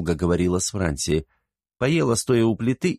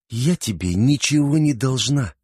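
higher, scornful brush-off; contemptuous; 5 semitones higher than usual. A narrator's reading. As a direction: sneer the refusal back at her. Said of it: "презрительно скривившись".

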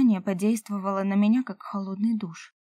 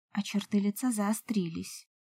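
plain reading voice

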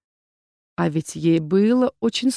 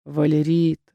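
gently lowered appeal by name; soft, gentle; 3 semitones lower than usual. A narrator's reading. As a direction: say the name as softly as possible. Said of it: "сказал он как можно мягче".

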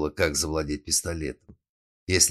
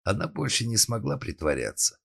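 ordinary delivery

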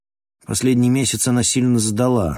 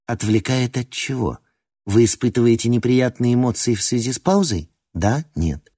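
metallic robot voice; 2 semitones higher than usual. Acted. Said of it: "снова отчеканила".

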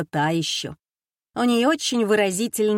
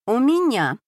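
сухо; 5 semitones higher, 4 dB louder than usual. A narrator's reading. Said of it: "сухо ответила я".

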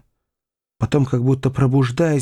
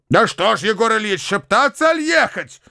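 impatient cry; 9 semitones higher than usual. A narrator's reading. Bakhcheev hurrying the whisperers, impatient cry. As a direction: snap them out of their whispering. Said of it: "вскричал в другой раз господин Бахчеев".

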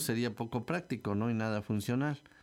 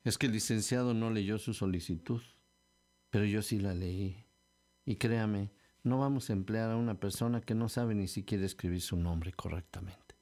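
matter-of-fact, dry refusal; understated dry official; dry reply. Acted. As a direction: answer curtly, without sympathy. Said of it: "él me respondió secamente".

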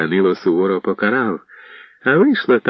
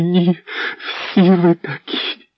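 high, slow drawn-out cry; wife breaking into a despairing accusation; despairing outcry; 11 semitones higher, much slower than usual. A narrator's reading. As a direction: stretch it out in bitter despair. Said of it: "Вона кричала".

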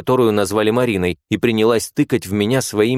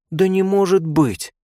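put-on higher, slower, let-down girlish voice; disappointed nurse; 10 semitones higher, slower than usual. A narrator's reading. Nurse losing a bet to her friend, disappointed. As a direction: sigh over the lost bet. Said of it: "разочарованно произнесла третья".

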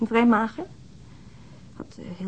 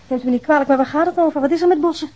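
anxious raised voice; 6 semitones higher, 7 dB louder than usual. Acted. Worried mother questions policeman.

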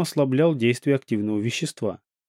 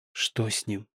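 barely audible, through numb stiff lips; 2 semitones lower, 8 dB quieter, slower than usual. A narrator's reading. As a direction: push the words out past lips that won't move. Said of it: "еле слышно проговорила я непослушными губами".

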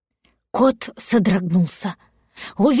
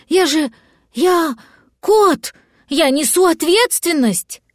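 panicked outburst; 6 semitones higher, slower than usual. Acted. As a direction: blurt it out in a rush of alarm. Cat panics, dragon missing.

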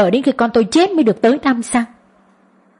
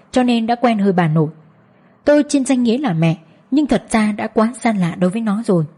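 ordinary delivery

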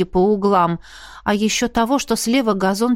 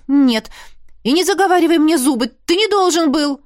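higher, fast, sharp retort; angry retort; 7 semitones higher, 3 dB louder than usual. Acted. Arnella cutting off Roderick's chatter, fast higher retort. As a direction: cut him off.

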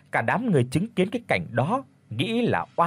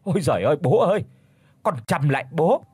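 terrified pleading; 3 semitones higher than usual. Acted. Nam begging his dead father, high and terrified. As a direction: cry out to the father's ghost for help. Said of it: "hãi hùng quỳ mọp xuống đất vái lấy vái để".

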